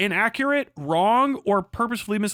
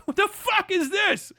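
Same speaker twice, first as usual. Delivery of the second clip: laughing disbelief; 12 semitones higher than usual. Real, not acted.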